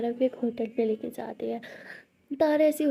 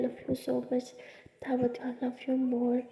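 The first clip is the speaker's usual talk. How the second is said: tender; 7 dB quieter, much slower than usual. Acted. Lovers' tender moment.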